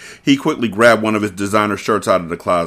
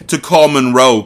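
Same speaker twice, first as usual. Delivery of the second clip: louder, punchier read; more dramatic; 3 semitones higher, 5 dB louder than usual. Shown as a demonstration. Carter answering Mia, redone louder and more dramatic. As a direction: give it real drama this time. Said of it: "Let me try that again".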